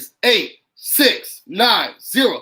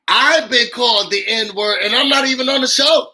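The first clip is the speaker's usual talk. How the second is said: upset, voice rising and louder; emotional; 3 semitones higher, 3 dB louder than usual. Real, not acted. Host venting to viewers about racism, emotional. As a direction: let the hurt push the voice up. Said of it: "I just got emotional".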